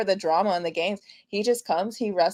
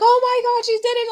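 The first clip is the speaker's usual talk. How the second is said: very high, thin squeal of disbelief; squealed re-enactment of amazement; retold shock; 14 semitones higher, 3 dB louder, much faster than usual. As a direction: relive the shock in a high-pitched gasp of words. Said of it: "I was so shocked by that".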